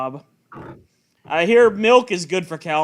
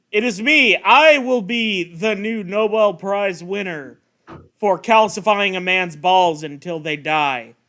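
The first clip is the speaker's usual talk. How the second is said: grandiose villain voice. Acted. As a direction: announce it like a self-declared genius. Mocking the man's grand plan.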